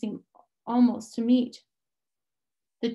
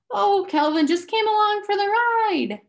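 bold, dismissive answer, pitched up and louder; harsh boldness; 10 semitones higher, 5 dB louder than usual. A narrator's reading. Charles Wallace answering the man, harsh and bold. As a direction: brush off the question with forced courage. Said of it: "with harsh boldness".

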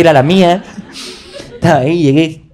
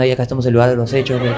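fast mock news report; mock reporter; much faster than usual. Brother filming the scene like a news reporter, quick. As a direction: rattle it off like a reporter. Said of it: "Un hermano estaba reportando".

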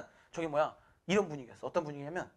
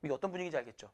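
ordinary delivery

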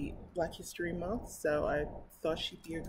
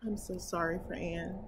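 plain reading voice

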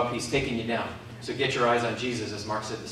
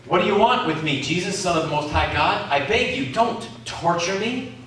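a touch of a pleading possessed man, louder, high at the end; demon-possessed man; 4 semitones higher, 4 dB louder than usual. Acted. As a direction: beg Jesus, half-hearted dramatic plea. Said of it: "shouting at the top of his voice".

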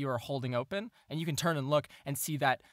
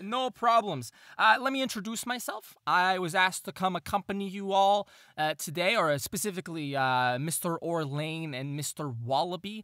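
higher, chirpy little gnome; gnome NPC voice; 4 semitones higher than usual. Acted. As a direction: play the polite gnome clerk.

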